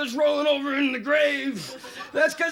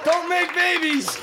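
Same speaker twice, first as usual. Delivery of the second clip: Pope; 2 semitones higher than usual. Acted. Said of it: "I'm the Pope".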